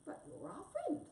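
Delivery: high, hurt protest; pleading wombat. Acted. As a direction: plead with a departing friend. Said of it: "said Wombat".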